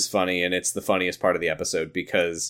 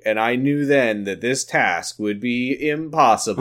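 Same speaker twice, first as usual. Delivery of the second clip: mock vlog narration voice; Elton. Host imitating a vlog narration for co-host, mock narrator. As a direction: narrate it like a self-serious vlogger. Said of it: "where Elton is narrating".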